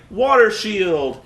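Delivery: slow, stretched-out spell name; mock move call. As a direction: announce the shield like a corny fighter. Mocking the movie's fight dialogue.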